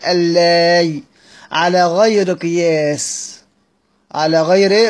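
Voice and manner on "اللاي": اللاي said slowly as al-lāy, the lām doubled and the final yāʼ sounded, no hamza; careful Quranic recitation of اللاي; tajweed demo reading. Shown as a demonstration. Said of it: "وصلنا في الآخر إن هي تنطق إزاي؟".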